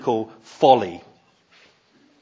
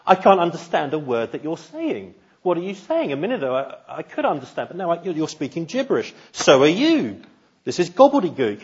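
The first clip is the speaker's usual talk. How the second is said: higher, lightly acted bickering; mock frustration; 5 semitones higher than usual. People of Babel to one another, increasingly frustrated. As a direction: act out mild, baffled exasperation. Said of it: "getting increasingly angry and frustrated".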